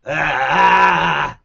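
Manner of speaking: high, loud rock-fan hype; excited hyped shout. Real, not acted. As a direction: get fired up by the music. Host excited over a rock band's music.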